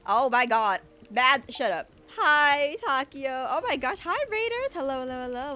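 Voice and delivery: loud, high squeals of surprise; real startled, very loud excitement; excited shouted greeting. Real, not acted. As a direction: shriek a thrilled welcome to the raiders. Startled streamer greets arriving raiders.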